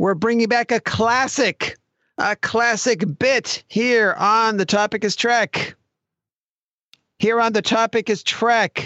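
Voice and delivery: loud shouting. Host bringing back a classic bit, shouting the show's name. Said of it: "Why are you shouting the name of this show?".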